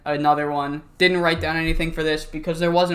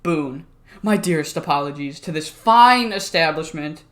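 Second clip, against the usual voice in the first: lightly put-on British king accent; a hint of goofy pretend-British royalty; Boone, mock-royal accent; 2 semitones lower than usual. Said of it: "a funny accent for this fucking goofball".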